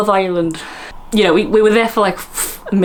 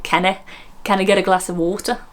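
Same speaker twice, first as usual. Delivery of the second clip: put-on tentative Scottish accent. Host testing whether she could do Scotch, tentative Scottish. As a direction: try a light Scottish accent. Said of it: "could do Scotch".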